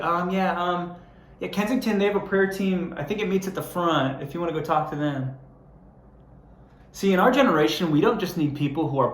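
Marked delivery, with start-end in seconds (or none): 0.0-5.3 higher, vague brush-off; offhand churchgoer. Pretend. Churchgoer waving off a fearful visitor, lightly mocked. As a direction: point them away without caring. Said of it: "I could just be like".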